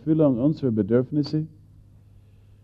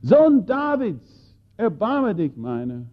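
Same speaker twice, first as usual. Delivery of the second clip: high, slow call, louder; crying out loud; 8 semitones higher, slower than usual. Acted. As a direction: stretch it out, pleading across the crowd. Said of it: "schrie er mit lauter Stimme".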